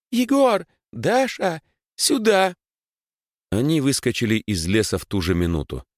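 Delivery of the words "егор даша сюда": high, loud calling out; yelling at full voice. Acted. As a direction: shout for them across the woods. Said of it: "заорала во весь голос".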